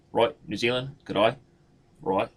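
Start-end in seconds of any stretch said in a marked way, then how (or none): 0.5-1.4 clipped mock New Zealand accent; lightly done New Zealand accent. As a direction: cut the vowels short like a Kiwi. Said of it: "New Zealand is a little more cut off".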